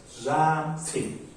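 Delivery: "Something" in two separated beats, "thing" stressed; stress on second syllable. Shown as a demonstration. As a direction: demonstrate the beat on "thing" in "Something".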